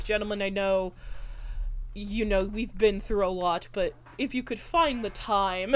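understated, composed imitation; level, restrained retold request; so calm. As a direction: play the polite, patient gentleman. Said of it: "like, so calm".

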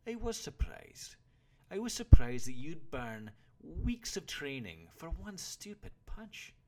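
loud, high exasperated scolding; old warrior berating his pupil; angry disgust. A narrator's reading. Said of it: "been disgust or anger at the boy's words".

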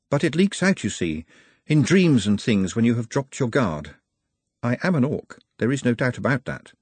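careful, grave Nutt admitting the truth; confessional Nutt. Acted. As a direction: reason it out earnestly as a confession.

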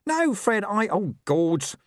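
very high, panicky backtracking; squeaky dismay; flustered corporal. A narrator's reading. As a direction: stammer out a high, anxious denial. Corporal flustered by his blunder.

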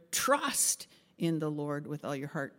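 Trust held out and punched, the rest easing off; stress on Trust. Shown as a demonstration. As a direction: lean hard on the word Trust. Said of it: "emphasize each word".

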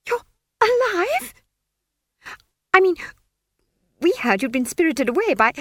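high, flustered, stammering wizard; a jittery young wizard voice; nervous wizard. A narrator's reading. Frightened wizard stammers at Arch-Chancellor.

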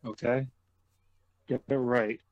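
put-on slow light Russian accent; stern Russian-accented English, deliberate. Russian joke continued.

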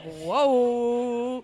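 woozy whoa. Retold or imitated. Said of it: "really felt it all over my body".

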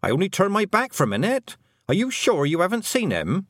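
high, frantic pleading of a worried mother; distraught parent seeking reassurance; panicky mother. A narrator's reading. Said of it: "wild look in her mother's eyes".

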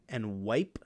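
whispering the clue to herself; breathy whisper, musing. Real, not acted. Musing over the quiz clue.

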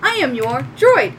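high robot greeting; little droid. Acted. Little droid greeting its new owner, high robotic voice. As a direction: introduce yourself as a robot, name left open. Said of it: "little machine walks up and goes".

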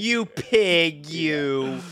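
loud, hammed-up insult; mock outrage. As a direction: play the offended lady. Co-host plays the outraged lady.

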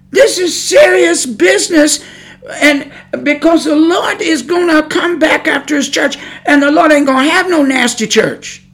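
high-pitched, urgent pulpit warning; emphatic preaching. Real, not acted. Preacher warning that this is serious business, emphatic preaching. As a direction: press the warning home with pulpit fervour.

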